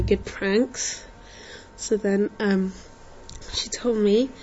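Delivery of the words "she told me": secretive whisper. Retold or imitated. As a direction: breathe it like a secret. Secretly sharing a prank idea.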